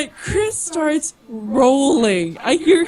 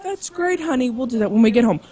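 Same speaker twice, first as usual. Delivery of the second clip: retold placating; faster than usual. Placating drunk husband, retold.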